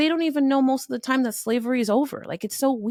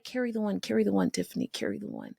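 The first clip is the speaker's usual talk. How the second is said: mock mental math; 4 dB quieter than usual. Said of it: "I'm here like".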